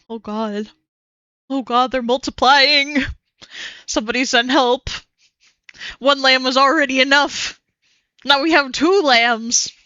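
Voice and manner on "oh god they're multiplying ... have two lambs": mock panic. Mock panic about two lambs.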